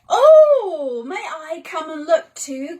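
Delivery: lightly voiced eager boy calling; Tommy calling. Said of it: "called Tommy".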